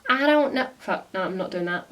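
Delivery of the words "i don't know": put-on botched try at an American accent; half-hearted American accent imitation; attempted American accent. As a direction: have a brief, failed go at sounding American. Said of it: "I can't do an American accent".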